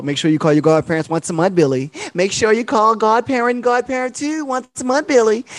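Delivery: nagging mom. Retold or imitated. Parent nagging child Billy.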